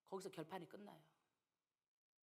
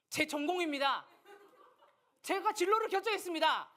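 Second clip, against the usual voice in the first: higher and louder, proudly stating it with a laugh; confident declaration; 5 semitones higher, 4 dB louder than usual. Shown as a demonstration. Student telling the teacher it's his major, proud and bold. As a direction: declare it boldly, chin up. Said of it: "그 당당해".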